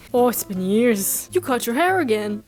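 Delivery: attempted accent sliding into Irish; accidental Irish accent. Woman notices Marie's new haircut, slipping Irish accent. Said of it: "That was a freaking Irish accent".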